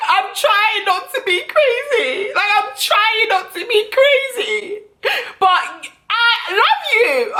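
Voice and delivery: high, slow, hammed-up sobbing plea; badly faked tears, whining high and slow with laughs; fake crying. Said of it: "So I had to start crying".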